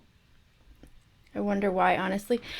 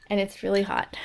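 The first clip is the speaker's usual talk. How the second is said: talking while crunching a snack; words round a crunchy bite; crunching chips; 3 dB quieter than usual. Real, not acted. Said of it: "Sorry for the crunch".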